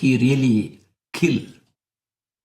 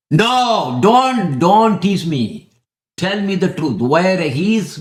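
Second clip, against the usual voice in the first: furious king; 3 semitones higher, 4 dB louder, slower than usual. Retold or imitated. King orders his son to tell him the truth, slow and loud. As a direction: drag out don't tease me in rage.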